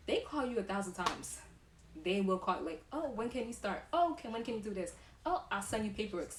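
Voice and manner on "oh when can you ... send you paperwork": bright, quick eager recruiter voice, pitched up. Retold or imitated. Recruiter phoning a new nurse, eagerly pitched up. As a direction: gush like a hiring manager chasing you.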